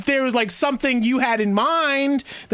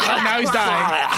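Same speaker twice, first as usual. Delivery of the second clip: laughing; much slower than usual. Real, not acted. Group laughing at joke.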